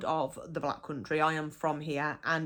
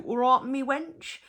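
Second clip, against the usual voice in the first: affectionate greeting; 7 semitones higher, 3 dB louder than usual. Shown as a demonstration. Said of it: "we say it quite affectionately".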